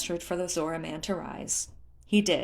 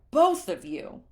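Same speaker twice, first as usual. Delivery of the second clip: louder clipped reproach; mortified scolding; 3 semitones higher, 5 dB louder, slower than usual. Acted. Leto scolds Tula and Groove, mortified and loud. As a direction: aim it at both of them.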